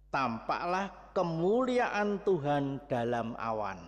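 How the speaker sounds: verse read out slowly and evenly; slow scripture reading. Shown as a demonstration. Preacher reads the verse to the congregation, slow reading. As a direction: read "Tampaklah kemuliaan Tuhan dalam awan" slowly, word by word.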